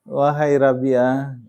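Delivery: "Wahai Rabi'ah" drawn out slowly, a touch of tears; tearful call. Retold or imitated. Weeping wife calls out to her son, slow and mildly tearful. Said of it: "Sambil menangis dia bilang".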